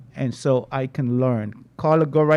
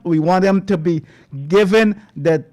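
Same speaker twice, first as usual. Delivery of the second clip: an outraged radio host railing at the government; indignant outcry; 3 semitones higher, 4 dB louder than usual. Real, not acted. Host demands death penalty.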